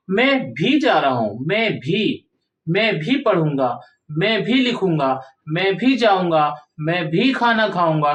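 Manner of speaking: भी pressed in each phrase; teacher stressing भी. Shown as a demonstration. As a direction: lean on भी every time. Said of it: "शब्द पे जोर दे रहा है".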